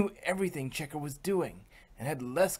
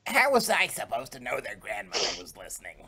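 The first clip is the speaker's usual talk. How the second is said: exclaimed; 4 semitones lower, faster than usual. A narrator's reading. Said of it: "Exclaimed another one".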